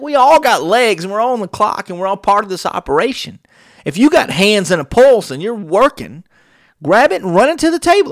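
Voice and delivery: high, loud rallying call; rallying rant. Retold or imitated. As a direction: fire up the whole crew. Ranting orders at staff.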